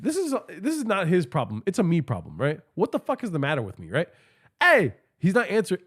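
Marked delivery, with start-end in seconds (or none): 4.6-4.9 higher, louder call. Retold or imitated. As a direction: call to get his attention. Calling out to unresponsive guy.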